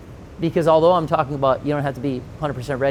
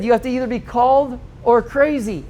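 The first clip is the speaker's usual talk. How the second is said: laughing quote; 8 semitones higher than usual. Retold or imitated. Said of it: "Like, he said".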